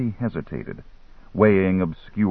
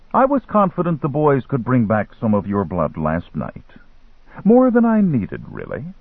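lightly voiced boastful dealer; caftan dealer; 3 semitones higher than usual. Dealer tells Lindsay the boys got his blood, lightly voiced and pleased.

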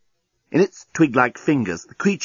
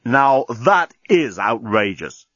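indignant; much slower than usual. Acted. Dan indignant at deskbot.

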